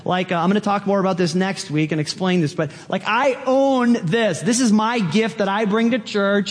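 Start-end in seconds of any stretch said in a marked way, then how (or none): 3.1-6.5 higher-pitched possessive claim. Acted. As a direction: lay claim to it, mock-proprietary. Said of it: "gift in the terms of possession".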